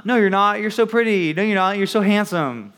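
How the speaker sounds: high, gushing mock reassurance; mock flattery. Friend answering someone who calls themselves ugly, high-pitched mock gushing.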